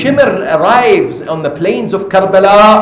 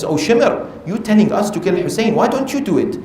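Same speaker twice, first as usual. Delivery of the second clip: softer, questioning challenge; challenging retort; 3 semitones higher, 4 dB quieter, faster than usual. Retold or imitated. Soldier answering Shimr's order, challenging him. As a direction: throw the order back at him without shouting.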